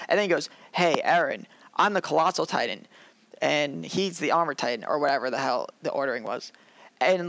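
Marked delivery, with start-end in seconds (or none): 0.7-4.9 offhand imitation of a big reveal; casual confession. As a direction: drop the revelation as if it were small talk. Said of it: "casually says it".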